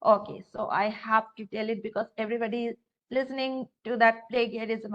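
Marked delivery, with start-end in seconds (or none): 4.3-4.9 "plagiarism" with a hard g, as play-ghee-a-rism; disliked mispronunciation. Retold or imitated. Teacher quoting what everybody is hearing, hard-g mispronunciation. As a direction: quote "plagiarism" with the wrong, hard g. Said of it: "I don't like it".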